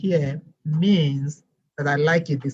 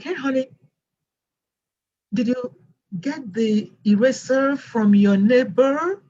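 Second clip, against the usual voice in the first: higher-pitched careful teacher voice; teacher practising pronunciation; 6 semitones higher than usual. Retold or imitated. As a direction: test the new accent on a pupil, slowing at the end. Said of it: "marched back to the student just to practice".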